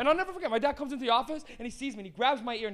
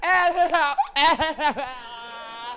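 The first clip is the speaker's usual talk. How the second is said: put-on loud, very slow, drawn-out crying-laughing ahs; 2 semitones higher, 6 dB louder than usual. Retelling being scolded by father: imitating a weird laughing cry. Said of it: "It's this weird cry".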